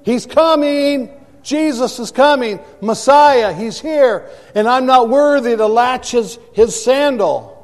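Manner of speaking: high, excited herald crying the news; John the Baptist crying out. Retold or imitated. Preacher voicing John the Baptist crying out to the crowd, high and excited. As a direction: proclaim it like a prophet in the desert. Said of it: "He cried out".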